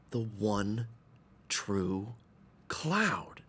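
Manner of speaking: soft, dropping to a whisper; hushed awe. Acted. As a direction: let the last word fade to a whisper. Hushed reveal of secret place.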